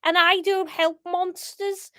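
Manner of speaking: put-on amateur Scouse accent, opening loud; attempted Scouse. Paul defying the gang on tape, attempted Scouse. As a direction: stand firm in a Scouse voice. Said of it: "Um, Scouse".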